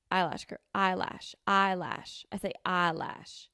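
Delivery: EYELASH with a slightly Southern first vowel; Southern-tinged. Shown as a demonstration. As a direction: cut eyelash short, a Southern touch. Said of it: "almost like a Southern thing to it".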